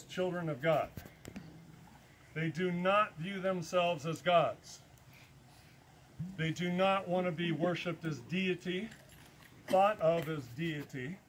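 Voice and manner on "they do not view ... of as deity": slow and deliberate with weight on not; stress on not. Real, not acted. Stressing to his listeners, slow with weight on not. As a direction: lean on not, slowly. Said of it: "emphasis on the word not".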